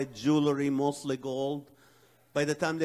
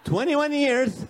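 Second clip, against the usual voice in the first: higher, louder, slow proud proclamation; proud announcement; 8 semitones higher, 6 dB louder, slower than usual. Real, not acted. Comic boasting to audience about his marriage, slow and proud. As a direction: savor the number like a trophy.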